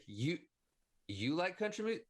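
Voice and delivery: put-on high, eager small-talk to a drunk rider; put-on friendly driver chatter; mock chummy. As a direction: fake enthusiasm to distract them. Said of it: "I'm like, Whatever, just cling on".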